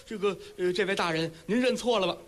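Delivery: put-on a startled old neighbor backing away, voice up high; frightened old man. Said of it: "老头儿害怕".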